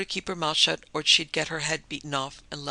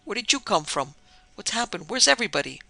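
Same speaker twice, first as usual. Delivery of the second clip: higher, rising questions of surprise; astonished exclaiming; 5 semitones higher, 4 dB louder than usual. Acted. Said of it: "he exclaimed".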